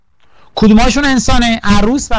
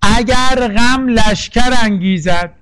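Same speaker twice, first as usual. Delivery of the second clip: slow verse reading; slower than usual. Shown as a demonstration. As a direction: read the line of poetry slowly, weighing each word. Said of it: "یکو میخونم،".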